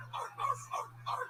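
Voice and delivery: high, breathy hype-man grunts, hammed up; impression of a rapper. Comic rolling down the window for cops, mock hype-man grunts. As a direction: bark out the hype-man ad-libs in a high rasp. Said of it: "I do my best rapper impression".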